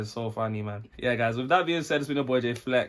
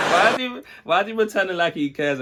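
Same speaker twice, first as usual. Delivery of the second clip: excited outburst; 6 semitones higher, 6 dB louder than usual. Real, not acted. Laughing reaction to comedy clip.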